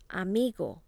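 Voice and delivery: "Amigo" with the weight on MI; stress next to last syllable. Shown as a demonstration. Teacher models the rule for repeating, stress next to last syllable. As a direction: lean on the middle syllable of "Amigo". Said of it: "stress next to the last syllable".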